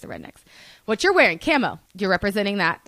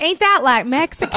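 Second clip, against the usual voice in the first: higher-pitched imitated redneck accent; mock-redneck Southern question; curious redneck; 6 semitones higher, 3 dB louder than usual. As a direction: ask it like a puzzled Southern redneck. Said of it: "he was curious".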